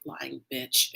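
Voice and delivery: imitating a man cursing under his breath. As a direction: drop it down as a muttered aside. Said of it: "under his breath".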